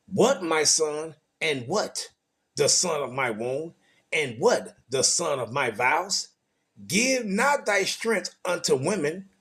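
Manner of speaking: slow, measured Bible reading; scripture reading. Acted. Preacher reading Proverbs to his listeners, slow scripture reading. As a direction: read the verse out with drawn-out, weighted phrases.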